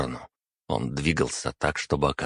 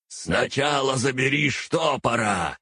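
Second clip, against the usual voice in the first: much higher shouted telepathic order; 9 semitones higher than usual. Acted. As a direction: yell it straight into his head. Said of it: "заорал мне Архас прямо в мозг".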